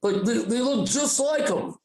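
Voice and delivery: slow, drawn-out tripping stoner; stretched-out, amazed druggy drawl; acid voice. Acted. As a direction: imitate someone dazed on acid. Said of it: "I'm doing my acid voice now".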